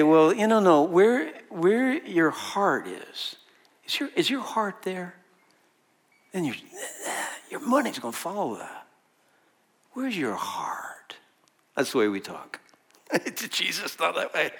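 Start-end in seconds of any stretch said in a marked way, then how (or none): 0.0-8.9 mock common wisdom. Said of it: "'Cause we say". 9.9-11.1 a slow breathy whisper, lower; slow mock whisper. Preacher mimics how people hush-ask about the heart.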